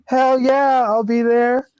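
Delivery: high, quick, delighted rush; bursting with excitement at the offer; jumping at the chance; thrilled yes. Retold or imitated. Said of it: "And I was like".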